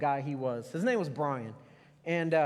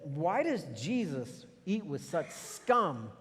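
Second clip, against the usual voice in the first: very slow, sneering disdain; slow mocking Pharisee sneer; scornful Pharisee; much slower than usual. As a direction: drag it out like a snob looking down. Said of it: "the Pharisees said".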